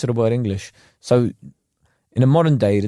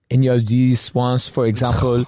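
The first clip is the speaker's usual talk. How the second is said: put-on French expert's accent. Host imitating French expert on TV, French accent. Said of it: "like, the French expert that comes on".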